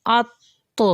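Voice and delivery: ات ending in a bounced, echoing t; qalqala bounce. Shown as a demonstration. Teacher drills qalqala letters: echoing t. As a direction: release the t of ات with a small jolt. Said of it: "اگر ہم قاف کے بعد طا ہے".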